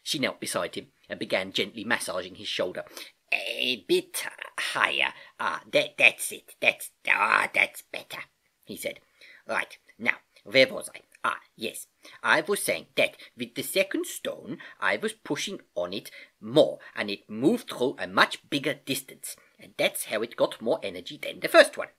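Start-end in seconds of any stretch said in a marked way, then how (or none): 3.3-8.2 drawn-out, breath-heavy start, then louder sighs of relief; relieved groaning. Acted. Uncle getting his sore shoulder rubbed. 9.5-21.9 put-on accented uncle teaching, key words lifted; patient Uncle Albert, explaining.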